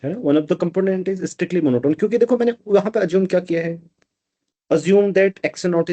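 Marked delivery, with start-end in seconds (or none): 0.2-2.0 slow dictation. Shown as a demonstration. Dictating while writing on board.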